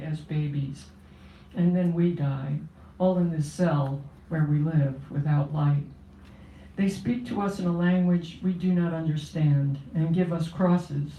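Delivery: measured, steady poetry reading voice; poem reading. Acted. Poet reading her poem to the audience, solemn and steady.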